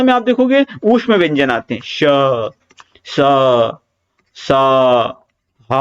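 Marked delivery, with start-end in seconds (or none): 1.8-5.7 श, स, स, ह each released with plenty of air; more breath. Shown as a demonstration. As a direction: let air flow out on श, स, ह, spaced apart. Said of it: "हवा निकल रही है ज्यादा".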